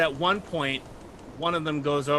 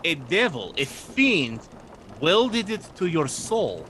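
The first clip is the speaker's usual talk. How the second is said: swooping, drawn-out disbelief; incredulous; slower than usual. Acted. Sailor questioning the druid about his arm, incredulous. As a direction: marvel at each word in character.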